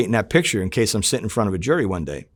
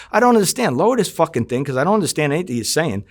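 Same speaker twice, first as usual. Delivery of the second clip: yelling over TV; 5 semitones higher than usual. Retold or imitated. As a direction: shout to be heard over the TV.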